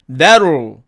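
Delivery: "that'll" as "deru" with a tapped t; contracted that'll. Shown as a demonstration. Teacher showing that will shortened, contracted. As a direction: flap the t in "that'll", L left open. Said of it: "줄여서 발음하면".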